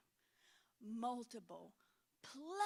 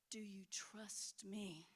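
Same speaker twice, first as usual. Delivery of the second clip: God with a firmer tone; 3 semitones lower, 6 dB quieter, much slower than usual. Retold or imitated. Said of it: "more of a tone on it".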